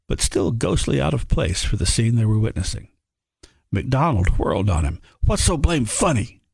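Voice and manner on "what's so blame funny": sharp, higher demand, pitch jumping up; rounding on him, wanting an answer. A narrator's reading. MacDonald whirls on Charlie, demanding what's funny. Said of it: "MacDonald demanded".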